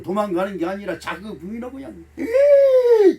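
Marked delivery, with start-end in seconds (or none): 2.2-3.2 sudden high startled "예"; a pastor's startled cry acting out Adam caught hiding; startled yelp. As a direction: jump with fright, high and loud.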